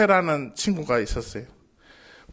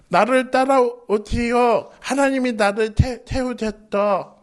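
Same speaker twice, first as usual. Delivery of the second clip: slow, halting, stammer on 태-, 태우셨다; stammering leader; 4 semitones higher, slower than usual. Shown as a demonstration. Moses failing to lead the people, slow and stammering. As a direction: falter and stumble through 나를 따라오시오. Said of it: "이러면은 못하잖아".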